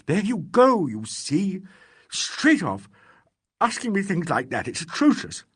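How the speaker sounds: half crying. Acted. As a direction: cry it out, on the edge of sobbing. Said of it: "half crying".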